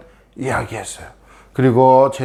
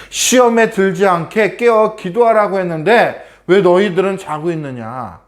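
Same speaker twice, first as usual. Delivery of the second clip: reproachful Jesus; 6 semitones higher than usual. Acted. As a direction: wake them with sorrowful reproach. Jesus rebukes disciples again. (잠든 제자들을 꾸짖는 예수님, 높고 큰 책망)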